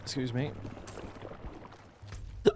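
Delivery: hiccuping between words; hiccups. Real, not acted. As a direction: talk through the hiccups. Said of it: "got the hiccups".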